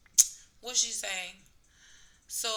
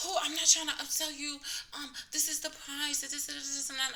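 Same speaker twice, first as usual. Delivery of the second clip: higher, louder, innocent-sounding imitation; mock defensive staffer; 7 semitones higher, 3 dB louder than usual. Dentist denies upselling the patient, high mock-innocent voice. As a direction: play the dentist acting wounded and innocent.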